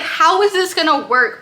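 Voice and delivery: mock-panicked reader reacting; worked-up disbelief. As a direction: play the invested reader fretting. Acts out her reaction to the plot.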